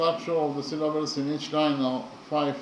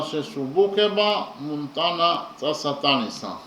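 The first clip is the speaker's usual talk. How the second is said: poem recitation. Shown as a demonstration. Teacher recites the stanza in its original language for the class, in a rhythmic chant. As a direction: chant the original-language lines in a steady poetic beat. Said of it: "the stanza in the original language ... is as follows".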